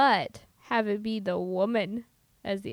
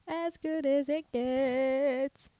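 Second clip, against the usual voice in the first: slow dramatic title; much slower than usual. Pretend. Echoes title slowly, dramatically.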